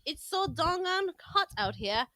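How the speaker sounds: put-on amateur Aussie accent that drifts British; attempted Australian accent. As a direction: have a go at Australian, landing near British. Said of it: "but that sounds British too".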